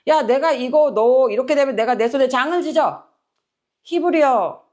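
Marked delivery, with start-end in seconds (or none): 0.1-3.0 acted, mildly heated vow; aggrieved insistence. Someone desperate to prove themselves, mildly aggrieved insistence. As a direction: insist in one rush, lightly indignant. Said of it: "너무 억울하고 막 증빙하고 싶으니까".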